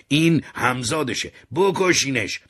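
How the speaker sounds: high, loud furious yell; mother yelling at the police to kill him; mother shouting. Acted. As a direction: scream for them to shoot.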